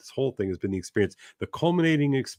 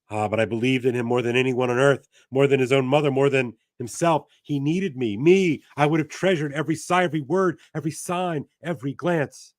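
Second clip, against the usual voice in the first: raised, quick pleading lament; grieving woman voice; 4 semitones higher than usual. Acted. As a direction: plead it through grief. Voicing the grieving Intended.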